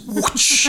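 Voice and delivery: slightly drawn-out mouth swish; imitated whoosh as a catchphrase; whoosh noise. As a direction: swoosh like a whipped belt. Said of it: "just going whoosh".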